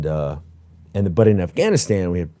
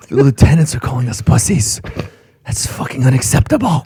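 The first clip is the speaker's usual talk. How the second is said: mock sergeant outrage; 5 semitones higher, 5 dB louder than usual.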